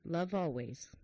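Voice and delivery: measured, heartfelt passage reading; reading aloud. Real, not acted. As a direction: read it slowly with pauses between phrases. Reads a book passage aloud.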